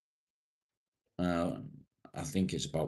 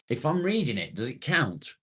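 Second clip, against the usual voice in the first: high, cheeky loophole question; mock innocent question; 7 semitones higher, 5 dB louder than usual. Real, not acted. Streamer asking chat if reading swears counts, high mock innocence. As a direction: ask as if seeking a loophole.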